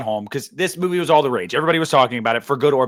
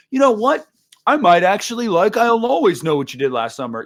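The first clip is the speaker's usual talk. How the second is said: naive past self; 4 semitones higher than usual. Retold or imitated. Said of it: "think stupidly and wrongly".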